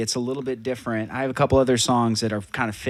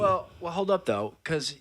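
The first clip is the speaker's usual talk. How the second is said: mouth full; 6 semitones higher, 4 dB quieter than usual. Real, not acted. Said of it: "I do have something in my mouth".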